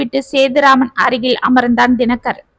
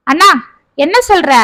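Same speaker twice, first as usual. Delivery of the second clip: a stunned younger brother's disbelief; shocked; 4 semitones higher than usual. A narrator's reading. Younger brother shocked at his elder brother's words, rising in surprise. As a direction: voice jumps up in shock. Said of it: "என்றான் குமார் அதிர்ச்சியாக".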